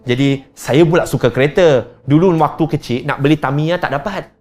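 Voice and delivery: fond excuse. Retold or imitated. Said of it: "Kita kata".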